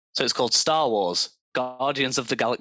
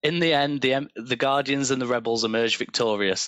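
space opera narrator. A narrator's reading. Reads AI story aloud.

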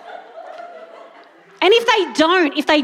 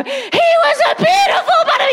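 grand storybook reveal; much faster than usual. Retold or imitated. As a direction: sing it out like the big finale to a baby. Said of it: "turn it to the last page and go".

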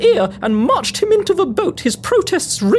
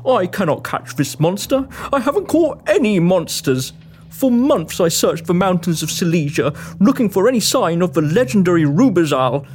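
much lower, downcast man's voice; despondent monster hunter; 11 semitones lower than usual. Acted. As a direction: confess failure in a low, hopeless voice. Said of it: "despondent to the point of weeping".

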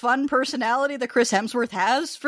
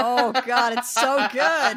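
laughing; 4 semitones higher, slower than usual. Real, not acted. Delight at Theron scream.

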